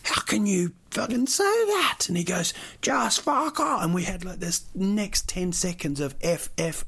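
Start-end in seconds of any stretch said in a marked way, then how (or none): 0.0-2.0 high, outraged cry; passionate outrage. Retold or imitated. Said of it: "I was so passionate". 2.8-3.8 high, slow mock-yelled brush-off; yelled retort. Cabbie's retort in argument.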